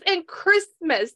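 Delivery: lightly acted, high and drawn-out interjection; imitating the mother. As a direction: stretch it out as her pointed add-on. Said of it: "She goes like this".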